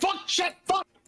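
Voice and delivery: very high, rapid-fire burst of speech. A game narrator voices a character falling backwards off a horse: quick succession of swears. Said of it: "a quick succession of dwarvish swears".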